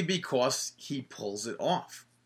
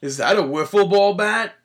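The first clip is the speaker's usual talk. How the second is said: high, loud announcer quote; imitating announcer; 7 semitones higher, 7 dB louder than usual. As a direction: echo the commentator's outrage. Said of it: "did you hear what he said during that?".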